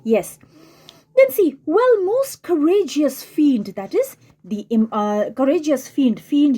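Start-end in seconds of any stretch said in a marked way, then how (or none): 1.6-3.7 reading Shakespeare. Acted. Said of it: "reading the fiend's line".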